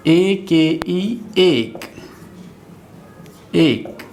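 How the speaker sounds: very slow letter-by-letter spelling; spelled out slowly. Shown as a demonstration. Teacher to pupils, sounding out letters very slowly. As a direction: drag each letter out so learners follow. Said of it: "एस एन स्न".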